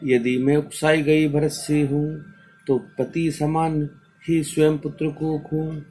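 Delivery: sustained, chant-like verse reading; measured classroom verse recital; poem recitation. Acted. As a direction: recite each line on a steady, even tone.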